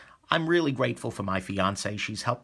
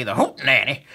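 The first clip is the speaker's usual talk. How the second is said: imitating Frankie; 4 semitones higher, 4 dB louder than usual. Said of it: "as Frankie ... would say".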